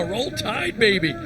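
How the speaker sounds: excited cheer. Real, not acted. Cheering the daughter's Alabama graduation.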